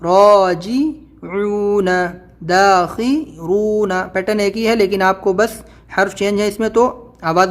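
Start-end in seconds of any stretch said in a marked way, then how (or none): 0.0-4.0 slow spelled-out recitation. Shown as a demonstration. Teacher spelling out a word for students, slow and sing-song. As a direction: spell each letter and vowel slowly, chant-like.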